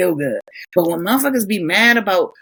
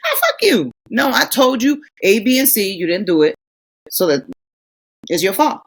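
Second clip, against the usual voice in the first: mock defiant telling-off. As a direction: stand your ground and tell him off. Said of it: "you stand your ground and you saying".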